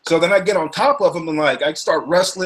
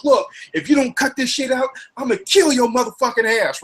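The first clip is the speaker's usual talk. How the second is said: retold threat; 7 semitones higher than usual. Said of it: "He goes".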